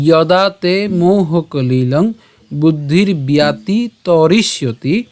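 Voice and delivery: slow, measured shloka recitation; Sanskrit verse recitation. Shown as a demonstration. Teacher presenting the Gita verse to a class, slow Sanskrit recitation. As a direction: draw out the long vowels, syllable by syllable. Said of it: "আমি যদি আবার বলি".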